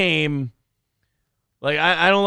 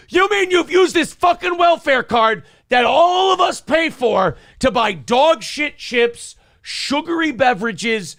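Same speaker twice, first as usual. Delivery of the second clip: much higher, loud outraged shouting; furious rant; 8 semitones higher, 4 dB louder than usual. Real, not acted. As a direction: let the outrage explode. Ranting about welfare card.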